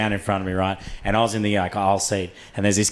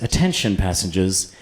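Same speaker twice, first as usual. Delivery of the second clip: measured cabin announcement, lifting at the end; imitated flight attendant. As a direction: address the whole cabin, slowing into the question. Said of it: "gets the microphone that beams down the plane".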